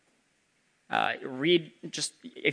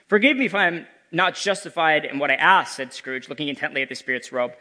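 Scrooge voice; 3 semitones higher than usual. Acted. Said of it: "This is Scrooge speaking".

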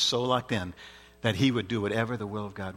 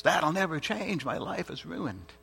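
mock despair, slow and softening; hopeless; 5 semitones higher, 4 dB quieter, slower than usual. Preacher voicing someone who looks at behavior, hopeless. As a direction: drag it out in mild, defeated resignation. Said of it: "with hopelessness".

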